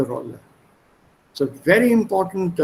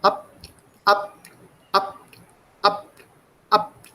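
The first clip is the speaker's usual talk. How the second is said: horse hoofbeats. Shown as a demonstration. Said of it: "that sound of the horse".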